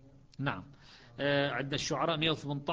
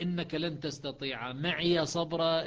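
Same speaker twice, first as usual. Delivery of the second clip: slow recited verse; Quran recitation; 2 semitones higher, slower than usual. Shown as a demonstration. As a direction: chant the verse slowly and evenly. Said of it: "قال له في البداية".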